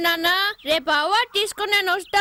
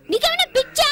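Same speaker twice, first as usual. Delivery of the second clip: much higher, louder disbelieving cry; shocked outburst; 10 semitones higher, 4 dB louder than usual. Acted. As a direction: blurt it out in disbelief. Daughter shocked at father begging. (ఆశ్చర్యంతో గట్టిగా అరవడం)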